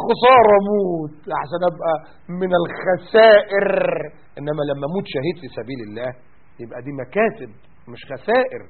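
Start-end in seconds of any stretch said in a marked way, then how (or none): 0.1-3.7 mock soldier. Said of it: "هيقول لك".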